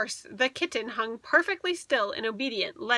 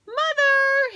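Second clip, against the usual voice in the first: higher, louder long call; 14 semitones higher, 6 dB louder than usual. A narrator's reading. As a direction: call out for mother. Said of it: "Harriet called".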